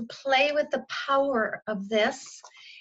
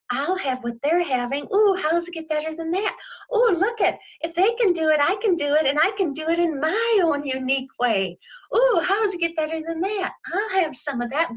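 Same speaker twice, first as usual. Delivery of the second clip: celebrating; 5 semitones higher than usual. Retold or imitated. Admirer celebrating someone doing what they love, cheering higher. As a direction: cheer on someone else's success. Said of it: "It's like".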